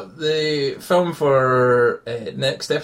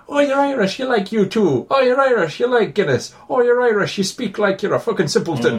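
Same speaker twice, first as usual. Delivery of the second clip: much higher, sneering voice of a clueless filmmaker; mocking film cliché voice; 8 semitones higher than usual. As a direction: lampoon the stereotype in a high mocking tone. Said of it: "like we've said".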